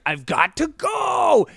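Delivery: high, drawn-out hammy shout; stretched, over-acted exit line; mock heroic cry. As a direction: belt out a melodramatic farewell. Acts Jack's dramatic exit line.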